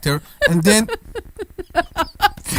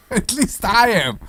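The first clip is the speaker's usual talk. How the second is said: laughing quote; 3 semitones higher than usual. Retold or imitated. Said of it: "quotes host again, laughing".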